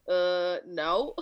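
put-on a blunt little boy shutting her down; deadpan kid refusal. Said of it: "he's like".

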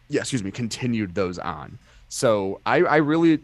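hiccuping mid-sentence; interrupted by hiccups. Real, not acted. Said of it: "excuse me, I've got the hiccups".

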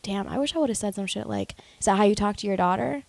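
replaying the comeback under breath; hushed wishful retort; imagined comeback, quiet. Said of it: "I was like".

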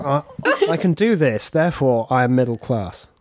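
mock upper-class RP voice; posh RP accent. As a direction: speak in plummy received pronunciation. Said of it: "if you can talk like this".

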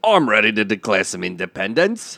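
put-on English accent that slides toward Australian; attempted English accent. Actor answers the rallying call, Australian-sounding English accent. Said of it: "because you sound Australian".

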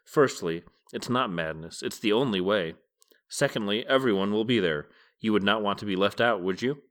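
put-on calm the angry old man down; peaceable, calming. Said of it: "he said peaceably".

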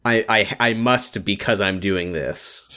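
low, slow, resigned explanation; slow and softly dutiful; grudging obligation. Retold or imitated. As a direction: say it as a weary duty. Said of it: "as if to say".

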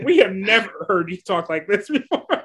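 breaking into a laugh mid-quote; laughing mock disbelief. Co-host quoting the tribe baffled by her strategizing, amused disbelief. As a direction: mimic baffled onlookers, laughter creeping in.

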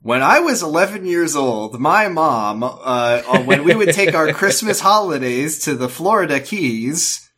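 recipe blogger. Pretend. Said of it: "it's like".

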